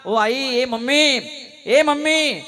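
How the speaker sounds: put-on slow, rising wail of a tearful little boy; imitating a weepy boy running to his mother; crying child calling mom. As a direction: call for mummy like a sobbing child. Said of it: "रडत रडत ... मुलगा आईकडे रडत गेला".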